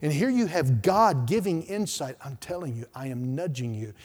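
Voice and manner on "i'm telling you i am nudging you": soft voice of God. Acted. God's voice softly nudging.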